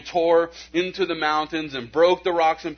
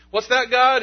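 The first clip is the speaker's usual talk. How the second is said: much higher and louder, straining to hear; calling out; 11 semitones higher, 7 dB louder than usual. Retold or imitated. Busy believer asking God to speak up, loud strained call. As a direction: shout over the noise, mock strained.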